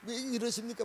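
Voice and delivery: protesting prayer. Acted. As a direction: act out a bewildered complaint in prayer. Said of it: "막 기도하다 보니까".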